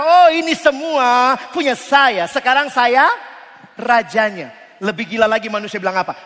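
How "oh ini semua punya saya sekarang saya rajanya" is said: smug claim. Pretend. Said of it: "kita bilang apa".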